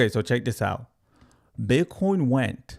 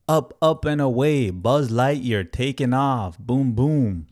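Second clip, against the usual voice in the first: higher and louder, up up and away; excited takeoff call, louder; hyped takeoff; 3 semitones higher, 5 dB louder, slower than usual. Real, not acted. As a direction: hype it like a rocket launch. Price takes off hype.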